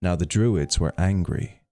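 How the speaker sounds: measured storybook reading; story narration. A narrator's reading. Streamer reading Saint Patrick's story to viewers, story narration. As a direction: read the legend out to listeners, phrase by phrase. Reads a legend aloud to stream.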